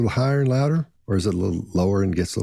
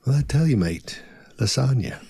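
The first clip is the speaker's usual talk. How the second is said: mock Australian; 4 semitones higher than usual. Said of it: "two hard S's on lasagna".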